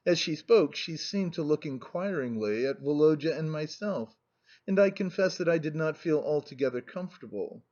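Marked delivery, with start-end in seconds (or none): none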